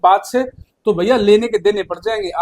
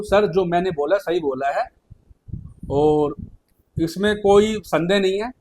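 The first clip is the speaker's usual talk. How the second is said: polite request; 4 dB quieter than usual. Shown as a demonstration. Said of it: "politely request कर सकते हो".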